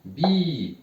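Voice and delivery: teacher stressing the syllable; stressed bi. Shown as a demonstration. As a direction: punch out "bi" with a long i. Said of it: "ça fait".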